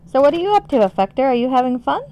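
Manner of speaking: high, loud, eager questions; perky greeting. Real, not acted. Streamer asks a viewer what they are up to, perky. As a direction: ask it high and loud, full of interest. Chirpy check-in with viewer Affector.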